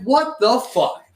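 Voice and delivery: high, drawn-out stunned exclamation; retold shaken disbelief. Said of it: "I'm literally shaking".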